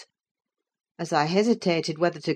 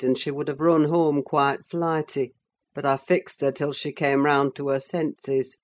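lightly voiced cold master. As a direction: drop the voice for the master. Zillah quoting the master.

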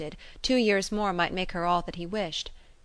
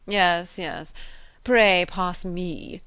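sneering; 6 dB louder, much slower than usual. Acted. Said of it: "with a sort of sneering consciousness".

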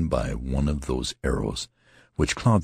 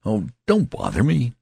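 exasperated; 9 semitones higher, 4 dB louder than usual. A narrator's reading. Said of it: "gave a cry of exasperation".

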